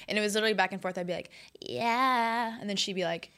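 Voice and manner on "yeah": nasal pop-star "yeah"; imitated pop singer's drawl, in the nose; drawn-out nasal impression of a pop singer. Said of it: "you do a mean pop singer".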